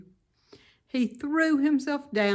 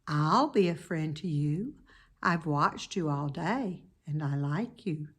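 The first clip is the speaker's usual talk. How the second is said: gentle; 2 semitones lower than usual. Acted. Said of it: "rather thin, but pleasant".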